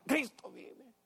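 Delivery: high cry of the congregation; crowd shout retold. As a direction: lift it high like the whole crowd. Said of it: "Y todos gritan". (grito alto de la congregación)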